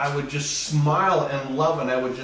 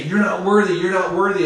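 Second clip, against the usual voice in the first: accusing; 3 semitones higher, 4 dB louder than usual. Acted. Acts the world's accusation.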